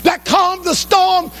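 high-pitched preaching cry; impassioned preaching. Acted. Blind man recalls recognizing Jesus, in impassioned preaching. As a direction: proclaim it high and fervently.

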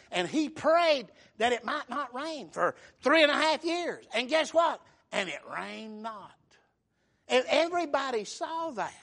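full-voiced pulpit storytelling; emphatic preaching. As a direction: preach it with building force.

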